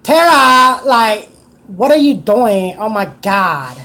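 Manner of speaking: put-on drawn-out valley girl whine; slow, breathy-free valley girl drawl. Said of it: "he's doing the Valley Girl gay shit".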